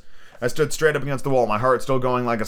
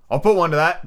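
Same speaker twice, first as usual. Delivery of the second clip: higher, mildly raised sailor's cry; cried out; 6 semitones higher, 4 dB louder than usual. Acted. Old seaman Morgan speaks against Jim, mild cry. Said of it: "cried the old mahogany-faced seaman".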